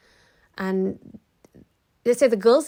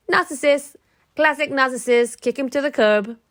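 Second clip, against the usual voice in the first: higher, louder, punchy declaration; emphatic verdict; 6 semitones higher, 7 dB louder than usual. Real, not acted. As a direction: nail the verdict.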